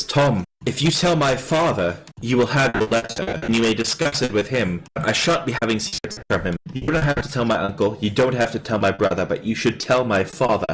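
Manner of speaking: lightly voiced, prim noble boy; a hint of a lordling's measured reproach; formal young noble. Young lord confronts Tom over a secret letter, formal reproach.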